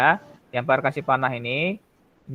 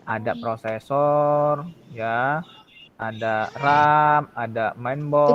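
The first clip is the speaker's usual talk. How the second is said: audio cutting in and out; choppy audio; slower than usual. Real, not acted. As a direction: voice breaking up over the call. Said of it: "Pak, suaranya macet-macet".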